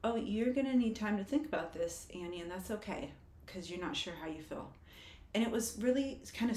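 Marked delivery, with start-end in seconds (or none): 0.0-4.7 soothing self-talk. Retold or imitated. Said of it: "while telling myself".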